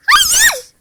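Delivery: very high, loud scream of no; anguished no. Real, not acted. Gamer screaming as he dies, anguished. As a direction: shriek it in despair. Losing in game.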